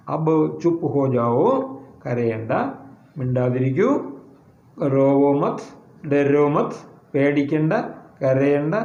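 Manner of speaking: mild reassurance, drawn out; soothing. Acted. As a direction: gently hush a crying child. Bystander soothing crying children.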